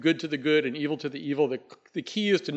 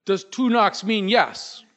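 higher, hushed, slow call into the dark; Snowbird calling to the dead; 7 semitones higher, 3 dB louder, slower than usual. Acted. Snowbird calling his dead friend at the door, high and slow. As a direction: call out hopefully to a ghost. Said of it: "And Snowbird says".

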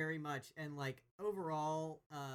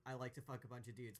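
quiet aside quote; 4 semitones lower, 9 dB quieter, faster than usual. Retold or imitated. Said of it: "she didn't say".

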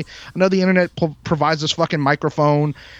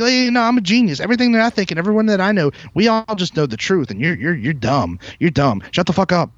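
smug know-it-all; 3 semitones higher than usual. Retold or imitated. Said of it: "they all just think".

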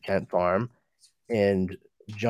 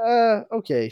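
sarcastic okay; 12 semitones higher than usual. Retold or imitated. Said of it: "she's like".

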